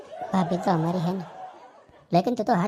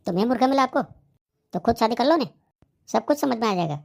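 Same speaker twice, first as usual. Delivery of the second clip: worked-up protest; 4 semitones higher than usual. Acted. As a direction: bristle at being made the scapegoat. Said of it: "इतना क्यों उछल रहे हो तुम".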